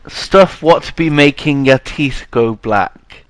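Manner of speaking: slow, low hag impression; old crone voice. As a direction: croak it like an old witch. Imitating old woman NPC.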